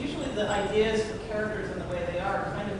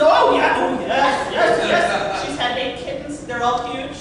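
farmer laughing; 5 semitones higher, 8 dB louder, slower than usual. Retold or imitated. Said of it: "He says".

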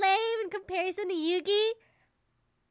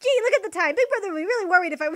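put-on kid voice; 5 dB louder, much faster than usual. Kid character voice, loud.

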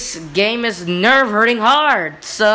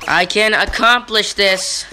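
determined shout; slower than usual. Real, not acted. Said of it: "'cause I can accomplish this".

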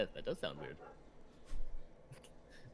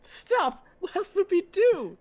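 baffled; 10 semitones higher, 5 dB louder, slower than usual. Acted. Robot baffled by stopping war.

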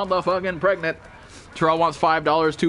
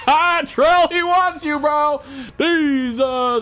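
high, loud laughing outburst; laughing tease; 9 semitones higher, 4 dB louder, much slower than usual. Real, not acted. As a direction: crow it through laughter at a friend. Laughing teasing of a friend.

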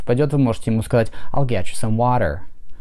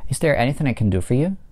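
is there anything I can do for you with do stressed, rising at the end; 3 semitones higher, faster than usual. Shown as a demonstration. Teacher models a yes-no question stressing do. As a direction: lean on do and lift at the end. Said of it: "под ударением находится глагол do".

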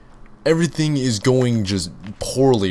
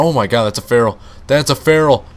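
startled alarm; 3 semitones higher, 6 dB louder than usual. Real, not acted. Feral attacks mid-drive.

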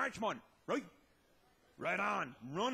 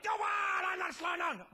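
defiant yell; 5 semitones higher than usual. Retold or imitated. Brother yelling back at speed.

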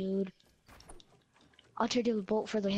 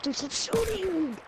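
yelling; 8 semitones higher, 3 dB louder, slower than usual. Real, not acted. Yelling at teammate firing.

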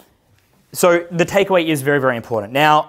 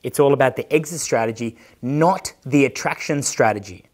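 calm advice. Retold or imitated. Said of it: "And I was like".

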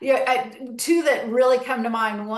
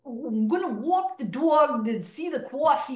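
put-on thick New Jersey accent, pitched higher; strong Jersey accent; 4 semitones higher than usual. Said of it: "that real Jersey accent".

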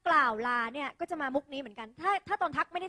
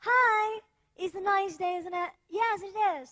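higher-pitched friendly greeting and reply; acted small talk; 5 semitones higher, much slower than usual. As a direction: play both sides of a polite hello. (แสดงบททักทายตามมารยาท เสียงสูงขึ้น)

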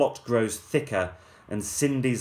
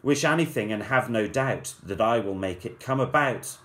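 fairy voice; 2 semitones higher than usual. Acted. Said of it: "she cried".

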